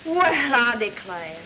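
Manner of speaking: slow southern belle drawl; Southern accent, lazy and slow. Acted. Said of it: "your southern accent".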